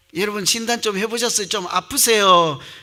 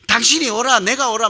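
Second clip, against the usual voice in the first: louder, higher mock bickering; acted quarrel; 6 semitones higher, 6 dB louder than usual. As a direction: argue back and forth, play-acted. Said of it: "막 싸우지 않으세요?". (옥신각신 싸우는 흉내)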